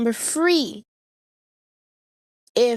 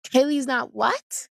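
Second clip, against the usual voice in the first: slow, rising indignant "Kaylee's not what?"; indignant question; 2 semitones higher than usual. Real, not acted. To her viewers, slow and indignant about Keith's claim. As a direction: challenge the accusation, stretching "what" upward. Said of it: "whoa, whoa, whoa".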